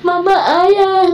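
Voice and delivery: slow, high, teary call; voicing her son's call. Mother retelling her son calling out his father is at the gate, high and teary.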